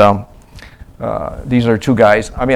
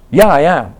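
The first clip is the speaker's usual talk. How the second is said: raised, higher mock answer; imitated reply; 6 semitones higher, 6 dB louder than usual. Missionary acting the person answering the evangelist, raised. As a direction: answer back loudly in character. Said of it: "the person says".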